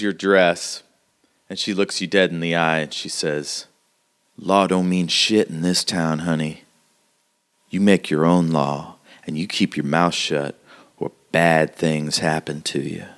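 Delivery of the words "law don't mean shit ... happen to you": a hint of a tough frontier woman; lightly voiced, warn like a hardened local; hardened townswoman, warning. Game master voices hardened townswoman.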